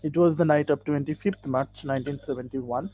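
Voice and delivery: very slow, every word spaced out; slow model reading. Shown as a demonstration. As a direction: read the sentence slowly for the class.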